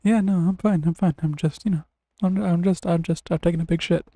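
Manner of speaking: loud reassuring call through door. Pretend. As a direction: shout back you're fine. Answering from the bathroom.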